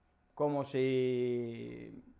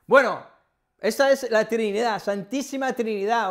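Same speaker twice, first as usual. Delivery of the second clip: laughing; 6 semitones higher, 9 dB louder than usual. Real, not acted. Laughing at her own joke.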